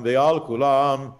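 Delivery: slow, drawn-out recitation of Ve'al Kulam; slow spoken. Shown as a demonstration. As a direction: say Ve'al Kulam slowly, word by word. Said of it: "You don't sing that".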